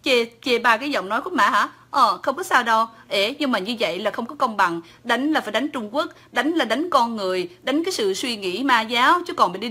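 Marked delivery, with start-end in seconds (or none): none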